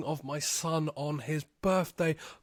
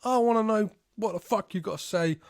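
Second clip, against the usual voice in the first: much higher, fast, mock sassy wife voice; hammed-up angry wife slamming the phone; 6 semitones higher, faster than usual. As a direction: squawk it back like an outraged wife. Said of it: "And she's like".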